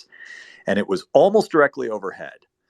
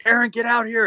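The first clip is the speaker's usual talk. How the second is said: high, loud call to get her outside; 14 semitones higher, 5 dB louder than usual. Retold or imitated. Calling Erin out to see the light, loud high shout. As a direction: shout across the yard, pitched up high.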